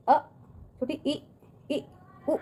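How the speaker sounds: अ, ई, उ each said briefly, not held; short vowels. Shown as a demonstration. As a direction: keep अ, ई, उ short. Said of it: "उच्चार बच्चों दूर तक नहीं करते हैं". (अ, ई, उ को बिना खींचे)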